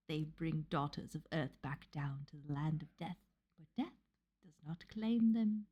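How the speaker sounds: put-on reading in a light Cockney accent, like a little Victorian child. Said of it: "I'll read it in an accent".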